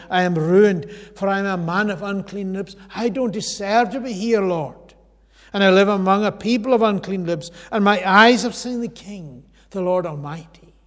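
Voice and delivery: loud, pleading lament to the Lord; anguished crying out. Acted. Preacher voicing Isaiah before the throne, loud anguished plea. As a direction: pour out unworthiness at full voice. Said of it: "I cried".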